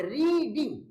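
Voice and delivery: रीडिंग in two beats, री then डिंग; two syllables. Shown as a demonstration. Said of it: "किस तरह से इसको प्रोनाउंस करोगे".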